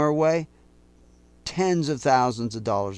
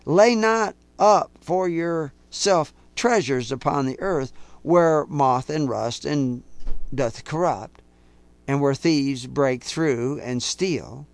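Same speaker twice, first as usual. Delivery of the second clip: slow scripture reading; slower than usual. Real, not acted. Reading verse nineteen aloud.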